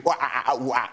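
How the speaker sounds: light mock ooh-ah grunts; monkey noises. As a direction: another lazy round of monkey grunting. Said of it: "Monkey impressions".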